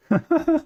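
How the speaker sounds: short squeaky laugh; high giggle. Real, not acted. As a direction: giggle at yourself. Laughs at own nerdiness.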